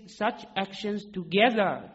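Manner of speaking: together stretched slow and weighted; emphasis on "together" for the listeners; stress on together. Shown as a demonstration. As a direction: lean on "together", drawn out. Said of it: "with emphasis on the word together".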